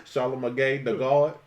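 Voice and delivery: slow, stretched-out name reading; Webby. Acted. Cohost imitating Webby reading names, slow and drawn out. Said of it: "Webby just reads stuff".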